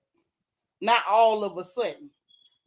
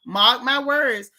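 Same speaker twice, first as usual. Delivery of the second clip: slow and louder, driving it home; firm warning; 5 dB louder, slower than usual. Real, not acted.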